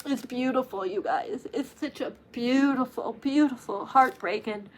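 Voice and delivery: soft, holding back real tears; tearfully hushed and moved; about to cry. Real, not acted. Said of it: "getting ready to cry again".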